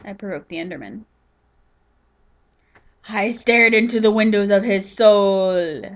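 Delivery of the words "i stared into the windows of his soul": louder and slow, mock-grave storyteller line; milk it like a horror trailer; dramatic. To viewers, hamming up staring at the Enderman, mock dramatic.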